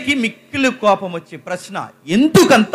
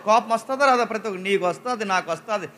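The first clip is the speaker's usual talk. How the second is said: normal talking voice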